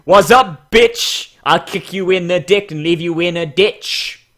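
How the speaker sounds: loud rhyming taunt; tough rhyming zebra. Pretend. Reviewer voicing the zebra as a rhyming tough guy, lightly voiced. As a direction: spit it like a cocky rhyme. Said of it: "be like".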